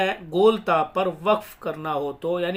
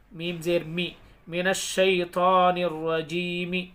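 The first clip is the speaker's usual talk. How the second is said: slow, measured syllable-by-syllable chant; elongated Arabic recitation for learners; Quran spelling recitation; much slower than usual. Shown as a demonstration. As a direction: spell out each syllable, then recite it joined, long vowels held. Hijja spelling and recitation demo.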